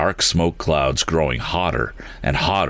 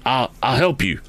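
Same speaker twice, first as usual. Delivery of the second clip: gasping; 7 semitones higher than usual. A narrator's reading. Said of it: "gasped Mister Damon".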